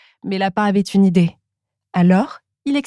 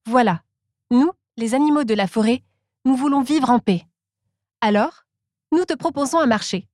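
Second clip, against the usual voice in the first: Monkey's voice; 4 semitones higher than usual. Acted. Narrator voices Monkey's offer.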